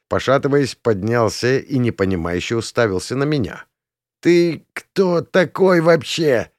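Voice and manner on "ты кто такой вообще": slow, higher, groggy squeeze; squeezed out. A narrator's reading. Dazed prince groggily asks the stranger, slow and strained. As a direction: force the words out, still dazed. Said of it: "выдавил он".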